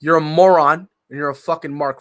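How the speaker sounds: loud, scornful insult with a laugh in it; angry insult. Real, not acted. Co-host insulting the angry fans, loud and laughing. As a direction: sneer it at the fans.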